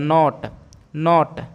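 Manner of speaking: नॉट with an open "aw", between "naat" and "note"; in-between vowel demo. Shown as a demonstration. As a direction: model नॉट slowly with a half-rounded vowel. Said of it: "थोड़ा उसके बीच वाला अर्थ निकल रहा है".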